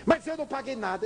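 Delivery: high indignant protest; indignant father. Retold or imitated. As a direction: object that he paid nothing.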